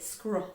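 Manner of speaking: Scruff as one joined-up word; blended word. Shown as a demonstration. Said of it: "Blend it".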